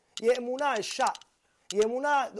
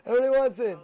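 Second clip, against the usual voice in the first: teasing; 7 dB louder, faster than usual. Real, not acted. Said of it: "teasing the audience".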